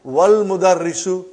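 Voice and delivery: "wal mudarrisu" with wa joined straight to l; "wal mudarrisu" linked, no glottal a before the l; hamza dropped. Shown as a demonstration. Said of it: "you did not pronounce Hamza".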